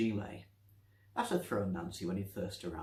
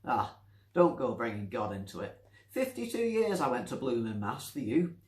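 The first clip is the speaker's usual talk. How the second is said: put-on louder old woman's voice, playfully needling; teasing; 3 semitones higher, 5 dB louder than usual. Nancy teasing the voice about mass. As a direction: rib him with a cheeky grin. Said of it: "she said teasingly".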